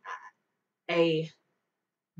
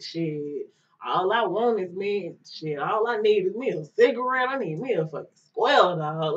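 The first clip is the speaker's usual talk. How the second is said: talking real hard. Retold or imitated. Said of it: "Like, just real hard".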